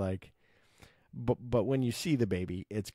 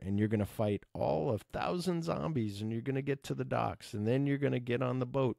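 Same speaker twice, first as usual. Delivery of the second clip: mock-sarcastic plan, pitched higher and rising; 3 semitones higher than usual. Security guard sarcastically spelling out the escape plan, mock-sarcastic. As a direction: lay out the plan as if it's obviously absurd. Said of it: "says sarcastically".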